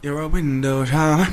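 put-on sing-song Nigerian accent. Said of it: "in a Nigerian accent".

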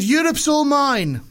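high, slow, drawn-out hammed-up Russian accent; mock Russian Putin. Putin gloats to Obama in a hammed-up Russian accent. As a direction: gloat it like a cartoon Russian villain. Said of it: "probably a Russian one".

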